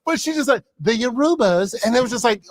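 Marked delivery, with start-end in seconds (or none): 0.8-1.7 "Yorubas" as yuh-ROO-buhz; mispronounced Yoruba. Retold or imitated. Professor carrying on regardless, mispronounced. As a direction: say "Yorubas" with ROO stressed, first vowel swallowed. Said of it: "she kept doing it".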